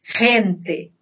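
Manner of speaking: "Gente" starting with a strong throat friction; throaty Spanish G. Shown as a demonstration. Teacher repeats the example, throaty G in "Gente". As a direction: rasp the first sound of "Gente", no trill. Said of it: "mas aqui forte".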